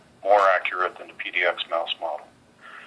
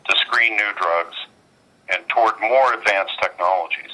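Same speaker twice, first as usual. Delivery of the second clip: on speakerphone. Real, not acted. Earnings conference call over phone.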